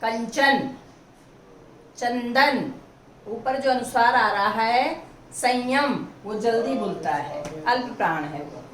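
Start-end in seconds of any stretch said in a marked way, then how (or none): 0.0-2.7 कंचन, चंदन said slowly, the nasal clearly sounded; demo words with nasal sound. Shown as a demonstration. Teacher sounding out nasal words for the class. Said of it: "बोलकर देखिए".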